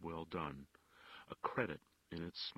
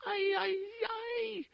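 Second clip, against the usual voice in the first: high, loud wailing cries; gasping cries; 10 dB louder, much slower than usual. A narrator's reading. Wife screaming as her husband is sentenced, anguished wail. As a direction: cry out in anguish as he's sentenced. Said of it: "her gasping cries".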